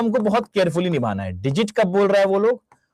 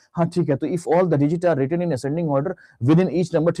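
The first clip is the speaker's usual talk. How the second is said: brisker, unemphatic read-through in a student's role; imitating a student skimming the question; hasty student reading aloud; slower than usual. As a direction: read it straight through without stopping to think. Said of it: "बच्चा से पढ़ा".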